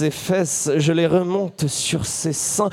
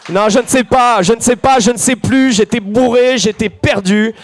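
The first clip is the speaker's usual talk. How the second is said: higher, hammed-up protesting; flustered excuse; 4 semitones higher, 4 dB louder than usual. Storyteller excusing himself to the crowd, flustered. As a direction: pile up the excuses in mock distress.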